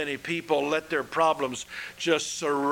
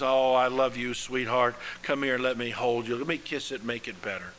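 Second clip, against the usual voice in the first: tender parent; 3 semitones lower, faster than usual. Retold or imitated. Wise parent comforts crying child.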